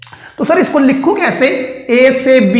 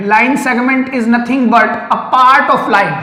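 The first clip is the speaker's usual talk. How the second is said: slow definition; much slower than usual. Shown as a demonstration. Teacher defines term slowly.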